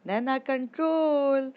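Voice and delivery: loud, high, drawn-out shout to calm her friend. Acted. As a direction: yell her name slowly to rein her in. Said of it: "अनु चिल्लाकर बोलती है".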